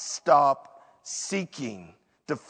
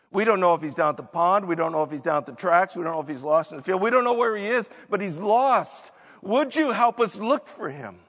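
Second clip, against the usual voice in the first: begging a neighbour for help, mock panic; frantic parents; 2 semitones higher, much faster than usual. Parents beg neighbour to search for lost Grant, hurried and frantic. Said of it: "they're quite frantic".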